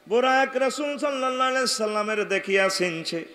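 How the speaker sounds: melodic waz chant, drawn-out line endings; intoned sermon narration. A narrator's reading. Preacher telling the congregation of Buraq meeting the Prophet, intoned. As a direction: recite the story in a steady sing-song.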